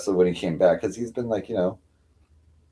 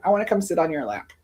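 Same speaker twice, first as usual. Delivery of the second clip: voicing the cat; 10 semitones higher, faster than usual. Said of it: "she's like".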